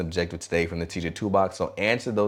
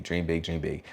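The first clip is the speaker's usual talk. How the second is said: class response; 3 semitones lower, 6 dB quieter than usual. Shown as a demonstration. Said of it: "you say big".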